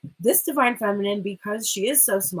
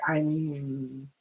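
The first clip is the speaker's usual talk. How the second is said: unimpressed feminine; much slower than usual. Acted. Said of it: "this feminine is like".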